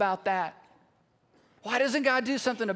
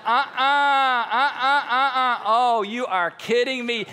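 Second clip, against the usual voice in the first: loud, hammed-up refusal; mock alarm; 6 dB louder, slower than usual. Onlookers refusing to move toward Lazarus, loud mock alarm. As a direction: balk loudly, then draw out the disbelief.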